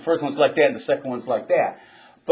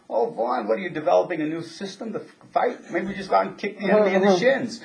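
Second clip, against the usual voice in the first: teasing jab in a higher voice; mocking sergeant; 6 semitones higher than usual. Other sergeant ribbing the platoon sergeant, mocking. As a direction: rib him with a sneering lilt.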